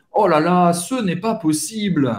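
exasperated fan, demonstrated; lamenting a missed goal; frustrated. Shown as a demonstration. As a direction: protest in mild disbelief. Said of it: "expressar uma frustração".

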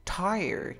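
high-pitched TIRED in a gringo accent; exaggerated American "Tired". Shown as a demonstration. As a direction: say "Tired" like a gringo, voice lifted at the start. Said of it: "Tienes que darle ese acento gringo".

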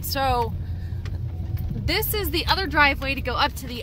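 talking while bouncing in a truck; on a bumpy road. Real, not acted. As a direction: voice jolted by the bumpy ride. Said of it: "Sorry about the bumpy road".

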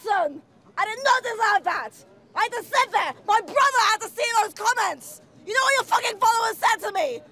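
shouted indignant rant; staged tearful outrage; angry yelling. Acted. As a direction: yell out every grievance.

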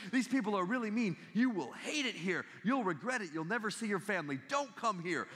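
lightly acted desperate tip-off; urgent mock warning. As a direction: press each dire warning home. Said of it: "he leans in and he goes".

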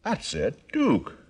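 put-on Arkansas country accent; country hick act. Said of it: "How about a Swedish dialect?".

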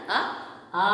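"ఆ, ఆ" with the first short, the second drawn out long; long second vowel. Shown as a demonstration. Teacher correcting pupils, second "ఆ" held long after a short one. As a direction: stretch the second sound in "ఆ, ఆ". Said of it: "రెండో అక్షరానికి దీర్ఘం పలకాలి".

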